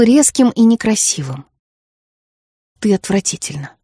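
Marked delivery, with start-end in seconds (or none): 2.8-3.7 flinching. Acted. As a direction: say it as you flinch. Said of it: "сказала Фейт, вздрогнув". (тихо, вздрогнув, дочь матери)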